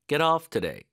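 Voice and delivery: "off" stressed, t linked into "today"; slow stress drill. Shown as a demonstration. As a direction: lean on "off". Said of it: "강세를 어디다 넣어야 되는지".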